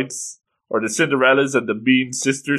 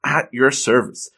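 grand announcement, slow and raised at first; witch introducing himself; 3 semitones higher than usual. Retold or imitated. Witch presenting himself to the stranded customers, grandly. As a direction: present yourself with a storybook flourish. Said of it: "and he says".

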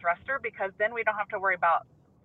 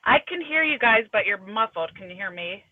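muffled remote call audio; inside a box. Real, not acted. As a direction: sound boxed in, muffled. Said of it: "you just sound like you're in a box".

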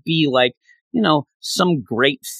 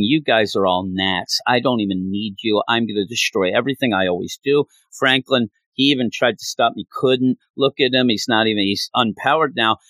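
menacing goddess; 4 semitones lower than usual. Retold or imitated. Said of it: "basically saying".

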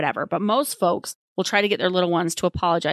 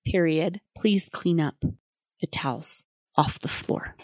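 gentle parent voice. Shown as a demonstration. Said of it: "then you hold the line".

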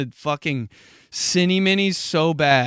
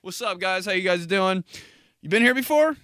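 higher-pitched restaurant greeting; server voice; 4 semitones higher than usual. Acted. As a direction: greet the table in a put-on waiter voice. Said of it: "It's my server voice".

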